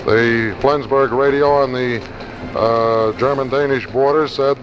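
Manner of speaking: vintage radio bulletin read; crackly 1940s radio newscast. Real, not acted. Archival wartime radio news bulletin.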